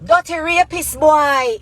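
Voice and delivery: loud, high, drawn-out accusing cry; imitation of screaming in the road; imitated street scream. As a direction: holler it out slowly like a public denunciation. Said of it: "walk out a road and scream".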